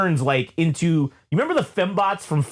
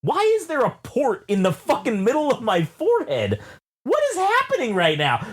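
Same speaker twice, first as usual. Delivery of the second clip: retold freak-out; 6 semitones higher than usual.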